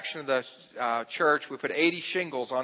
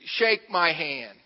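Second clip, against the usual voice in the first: slow, measured request at usual volume; slow demand; slower than usual. Retold or imitated. Pastor at a loss facing big driver, slow demand. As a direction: say it slowly, unsure what else to say.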